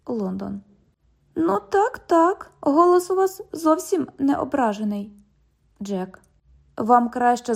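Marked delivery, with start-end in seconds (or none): 1.3-5.1 high, sarcastic teasing; sarcastic tease. Acted. London teases the cop that he sounds offended, sarcastic. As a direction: needle him with mock sympathy.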